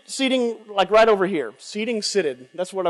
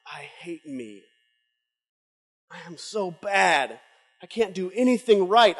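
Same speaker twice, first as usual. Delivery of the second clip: despairing sinner. Retold or imitated. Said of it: "down on his face, saying".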